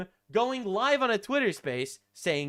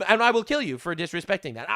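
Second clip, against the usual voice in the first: mock threat; 5 dB louder than usual. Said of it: "that's what he said".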